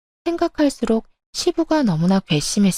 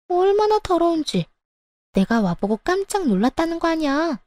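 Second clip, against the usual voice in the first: smug higher voice of the mistress; 7 semitones higher than usual. Acted. Mistress boasting to the daughter-in-law, smug high voice.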